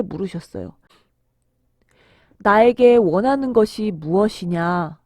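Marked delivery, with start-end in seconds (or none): 2.4-5.0 slow, measured, dignified question; solemn Jesus. Acted. Jesus asks the blind man his wish, solemn and slow. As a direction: ask with slow, gentle authority.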